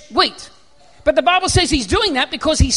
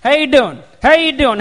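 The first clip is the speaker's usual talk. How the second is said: Joey Tribbiani impression; 3 dB louder than usual. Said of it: "like Joey Tribbiani".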